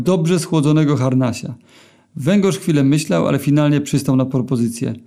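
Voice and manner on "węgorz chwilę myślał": ordinary delivery, nothing marked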